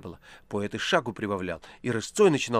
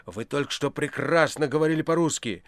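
louder and louder, ending in a yelled demand; furious shout; 3 semitones higher, 5 dB louder than usual. A narrator's reading. Poet furiously accusing the foreigner of being a spy. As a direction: accuse him, building to a shout. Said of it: "яростно крикнул Иван".

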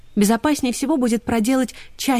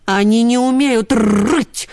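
annoyed; 3 semitones higher, 5 dB louder, slower than usual. Acted. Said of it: "с досадой ответил тренер".

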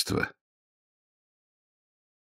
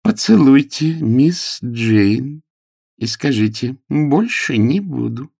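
higher, louder, slow insistent order; scolding nanny; 7 semitones higher, 5 dB louder, slower than usual. Acted. Nanny orders the boy to kiss Miss Jane, scolding. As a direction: drag out each word like a strict nanny.

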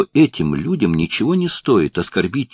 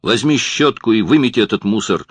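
yelling boss; 3 semitones higher, 3 dB louder than usual. Acted. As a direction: yell orders at the clumsy kid. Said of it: "заорал хозяин".

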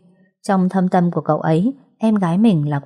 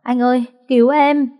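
sobbing plea; 6 semitones higher than usual. A narrator's reading. Little sister sobbing, begs brother high to save her. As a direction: beg through tears. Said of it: "khóc nức nở".

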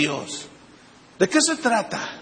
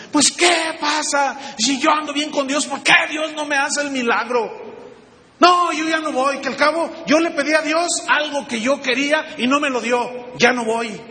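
mocking a Christian who quits on God; mock sulking believer; 5 semitones higher than usual. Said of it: "cuando lloran y dicen".

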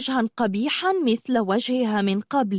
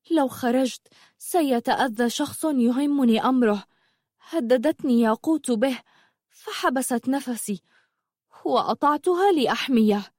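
higher, troubled confession; lightly voiced young sorceress, distressed; 4 semitones higher than usual. Zumurrud explains Yaqut's threat to Habiba, troubled.

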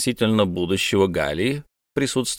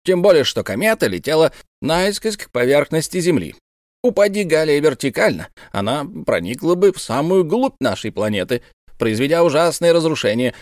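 a lightly voiced eccentric astronomer, lecturing a bit higher; proud old professor; 5 semitones higher than usual. Professor lectures the officers, lightly voiced and pleased with himself. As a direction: hold forth like a self-important old scholar.

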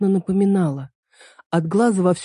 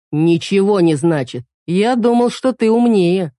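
slow, louder condescending retort; man belittling the girl, slow and scornful; dismissive put-down; 2 semitones higher, 4 dB louder, slower than usual. Acted. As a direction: cut her down slowly. Man cutting her off dismissively.

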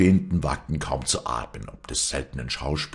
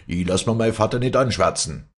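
higher, louder indignant cry; shouted protest; 6 semitones higher, 5 dB louder than usual. A narrator's reading. Son refuses to hear his father slandered, shouting. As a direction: defend your father at a shout. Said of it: "schrie Joseph".

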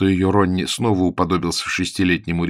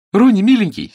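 delighted greeting; 13 semitones higher, 8 dB louder than usual. Acted. Sue runs to Ronnie joyfully.

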